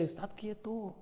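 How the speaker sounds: God quietly saying be still; gentle voice of God. Retold or imitated. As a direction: speak as God calming his child, softly. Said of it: "el Señor nos está casi gritando".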